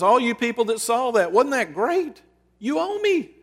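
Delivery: rising to a high, taunting "you owe me"; lightly voiced, building to a high taunt; mock demanding Jesus.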